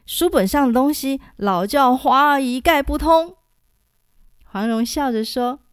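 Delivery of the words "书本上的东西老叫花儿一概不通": hasty refusal. Acted. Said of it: "连忙摇手说".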